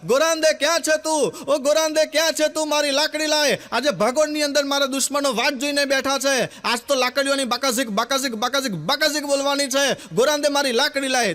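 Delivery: a puffed-up villager hollering for his stick; calling out. Retold or imitated. Villager shouting for his wife to fetch his stick, blustering. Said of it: "બૂમો પાડતો પાડતો આવ્યો".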